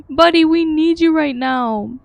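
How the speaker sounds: calling out to an ally in need; urgent plea. Real, not acted. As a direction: urge a useless teammate to step up. Player urging missing game ally.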